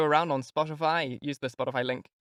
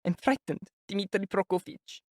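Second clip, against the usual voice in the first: timid; 7 semitones higher, 3 dB quieter than usual. A narrator's reading. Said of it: "giving him a timid glance".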